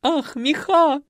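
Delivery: slow, high breathy-sounding ah over furs; swooning moan. A narrator's reading. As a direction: swoon at the fur. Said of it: "простонала Зюка".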